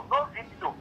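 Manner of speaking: sudden very high pitch on the repeat; quoted officer, squeaky high. Retold or imitated. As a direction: fling the words up into a high squeak. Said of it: "oh, he said".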